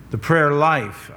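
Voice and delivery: The prayer life, slow, with life leaned on; stress on life. Shown as a demonstration. Pastor stressing life, not prayer time, slowly. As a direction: drag it out and land on life. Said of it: "I emphasize life".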